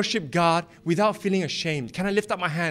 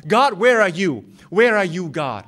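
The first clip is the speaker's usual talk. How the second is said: desperate plea; 5 dB louder than usual. Pretend. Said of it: "we're asking God".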